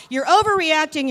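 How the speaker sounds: high, loud brush-off; dismissive grandpa. Retold or imitated. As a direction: wave away her worry, loudly. Grandpa dismissive, voiced in story.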